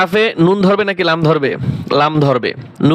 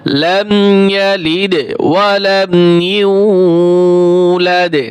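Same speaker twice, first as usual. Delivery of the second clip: slow, drawn-out tajweed recitation; Quran recitation; much slower than usual. Shown as a demonstration. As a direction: chant each word long and even, like tilawat. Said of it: "teacher demonstrates recitation".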